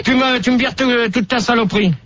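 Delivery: testy order; irritated yelling. Real, not acted. Host ordering a newcomer to clear her stuff, irritated yelling. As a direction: order it cleared away crossly. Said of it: "tu commences à hurler".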